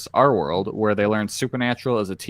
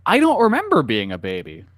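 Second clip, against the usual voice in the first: clickbait video narrator; 5 semitones higher than usual. Pretend. Mock trivia video narration.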